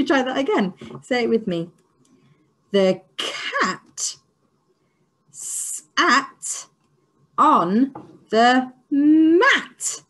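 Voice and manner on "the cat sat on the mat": slow, louder mat stretched out; drawn-out loud delight; triumphant finish. Shown as a demonstration. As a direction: land the sentence like a prize. Teacher sings out end of sentence.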